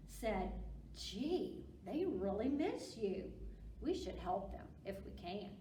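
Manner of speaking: lively picture-book read-aloud; reading to children. Acted. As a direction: read it to little kids with big expression.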